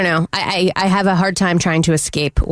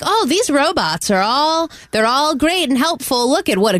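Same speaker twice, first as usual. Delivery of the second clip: naive cheerful praise; 6 semitones higher than usual. Retold or imitated. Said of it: "they're like".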